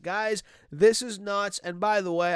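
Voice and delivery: stuffy nose from allergies; blocked nose, nasal sound. Real, not acted. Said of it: "I apologize for my nasally voice".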